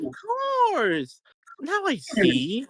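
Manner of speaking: Beetle voice. Acted. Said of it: "I finally did my Beetle voice".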